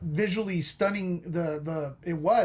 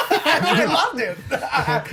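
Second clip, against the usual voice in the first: laughing; 4 semitones higher, 3 dB louder, slower than usual. Real, not acted. Laughing while confessing enjoyment.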